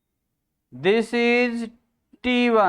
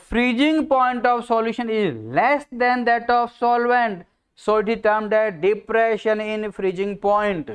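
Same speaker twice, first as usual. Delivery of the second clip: slow dictation; much slower than usual. Shown as a demonstration. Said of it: "copy किया जाए".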